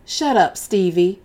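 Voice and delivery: 厉声打断多嘴的男孩; sharp shut up. Acted. Mother silences tattling boy.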